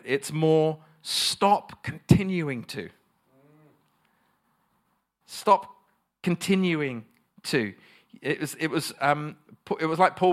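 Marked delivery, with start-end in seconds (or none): 1.0-2.9 "Stop continuing" drawn out slowly and firmly; stress on Stop continuing. Shown as a demonstration. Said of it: "the emphasis on the word there". 5.3-7.8 "Stop" set apart, then "continuing" drawn out; stress on Stop continuing. Shown as a demonstration. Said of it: "the emphasis on the word there".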